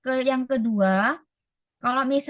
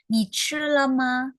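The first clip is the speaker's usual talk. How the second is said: "Ni chi le ma?" said slowly and higher, each syllable spaced; slow teaching take; 4 semitones higher, slower than usual. Shown as a demonstration. Teacher models the question to students, slow and higher. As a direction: spell out "Ni chi le ma?" slowly for learners. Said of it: "Aku udah coba".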